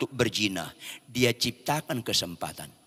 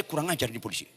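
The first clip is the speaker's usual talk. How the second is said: muttered under the breath, much softer; inner curse; 8 dB quieter, faster than usual. Retold or imitated. Preacher voices his inner curse at the policeman, softly. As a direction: curse him silently. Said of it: "Dalam hati saya".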